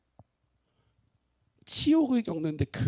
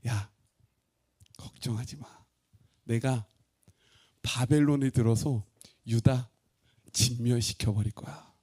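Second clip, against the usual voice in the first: God's calm reply; 4 semitones lower than usual. Acted. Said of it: "뭐라고 말씀하시냐면".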